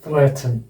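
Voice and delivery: careful English model of threaten, second vowel swallowed; syllabic N demo. Shown as a demonstration. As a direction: threaten with the ending reduced to a syllabic N. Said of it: "threaten बोलते हैं ना हम Indian".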